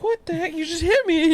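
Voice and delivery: high-pitched retold outrage; mock indignant mother. Mother to the child who hit her, mock indignant. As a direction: imitate her startled protest up high.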